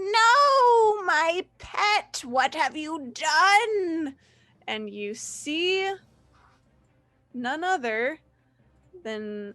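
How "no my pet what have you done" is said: high, wailing witch voice, no drawn out. Game master voicing a witch as the players finish their turn, high, wailing voice. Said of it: "a high, waily voice".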